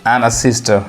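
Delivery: very slow, word-by-word English sentence; slow example reading. Shown as a demonstration. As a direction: spell it out slowly for beginners. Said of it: "अब example देखिए". (बहुत धीमे शब्द-दर-शब्द पढ़ना)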